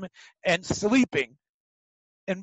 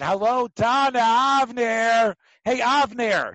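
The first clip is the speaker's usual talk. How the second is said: calling out; 3 semitones higher, 3 dB louder, slower than usual. Retold or imitated. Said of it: "the first thing he screamed was".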